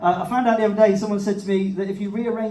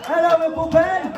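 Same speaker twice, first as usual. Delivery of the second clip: new act greeting; 6 semitones higher, 4 dB louder than usual. Acted. Comic greets crowd in new persona.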